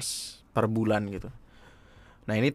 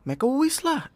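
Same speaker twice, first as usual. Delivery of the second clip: put-on girl voice; 13 semitones higher, slower than usual. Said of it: "Gua pasti suara cewek ya?".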